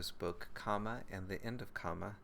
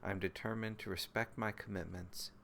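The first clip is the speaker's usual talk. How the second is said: measured, even recitation of a vow; solemn precept recitation. Real, not acted. Teacher reciting a precept for the practice group, solemn recitation. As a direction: recite it phrase by phrase, with composed pauses.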